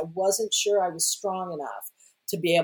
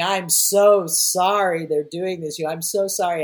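tearful apology; 2 semitones higher, 5 dB louder than usual. Retold or imitated. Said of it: "I'm crying and saying".

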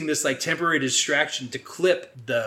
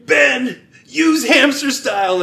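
loud, high mock shout; urgent retold yell; 10 semitones higher, 9 dB louder, slower than usual. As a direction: yell an order to a friend mid-fight. Acts Joe yelling at Ben mid-fight.

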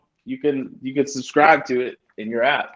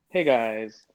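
YouTube voice; slower than usual. Pretend. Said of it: "standard issue YouTube voice".

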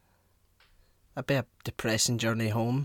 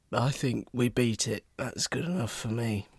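botched David Tennant impression. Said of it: "I just did a botched David Tennant impression".

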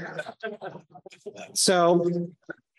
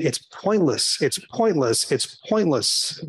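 nagging inner voice; 3 semitones lower, slower than usual. Retold or imitated. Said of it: "nagging voice in the back of my head".

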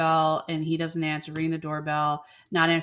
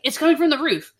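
mock alarmed realisation; 8 semitones higher, 6 dB louder than usual. Bridget hearing a noise.

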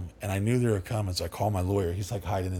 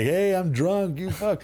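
mock drunk; 8 semitones higher, slower than usual. Drunk, smiling in mugshot.

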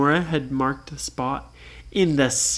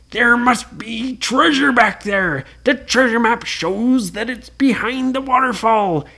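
stubborn Blackbeard; 6 semitones higher, 3 dB louder than usual. Acted. Blackbeard insists.

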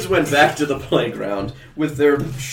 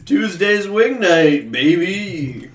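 slow smug drawl; 5 semitones higher, much slower than usual. Acted. Doctor character drawls boast.

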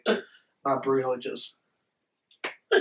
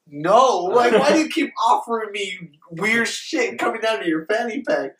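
loud, higher disbelief; louder, higher exasperation; exasperated no; 7 semitones higher, 4 dB louder than usual. Retold or imitated. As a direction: push back, fed up. Refusing weird offers, exasperated.

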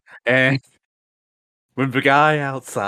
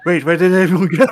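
confused; 5 semitones higher, 6 dB louder, faster than usual. Retold or imitated. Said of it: "Naoto's immediately like".

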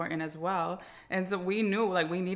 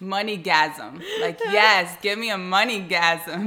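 excited; 11 dB louder, slower than usual. Pretend. Playful sexy joke about money.

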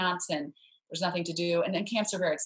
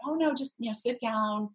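kind reassurance; 4 semitones higher than usual. Retold or imitated. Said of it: "the woman was very kind".

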